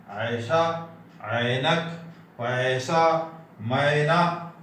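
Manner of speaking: ऐसा, ऐनक, पैसा, मैना with a long open ae; Hindi ऐ sound. Shown as a demonstration. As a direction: hold the ae in पैसा and मैना, no ee glide. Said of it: "इस प्रकार हम उच्चारण करते हैं". (ऐसा, ऐनक, पैसा, मैना में खुला लंबा 'ऍ')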